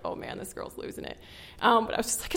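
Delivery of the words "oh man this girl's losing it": imitating the pastors in a near whisper; hushed aside. Pastors murmuring about the crying girl, hushed. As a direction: breathe it like an aside between worried pastors.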